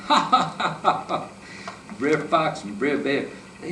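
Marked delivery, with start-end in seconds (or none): 0.1-1.3 high, loud mock laughter; a big ringing ha ha ha; rabbit laughing out loud. A narrator's reading. To fox and bear, the rabbit laughs loud. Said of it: "he laugh out loud".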